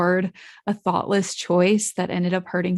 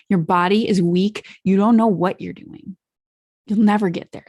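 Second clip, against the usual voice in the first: harsh inner critic. Shown as a demonstration. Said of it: "I don't like talking like that".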